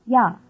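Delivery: "ya" said as one distinct syllable with a y glide; "ya" as a clear Chinese particle, y plus open a; marker pronounced ya. Shown as a demonstration. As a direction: say "ya" clearly, starting on a y sound. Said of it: "is pronounced".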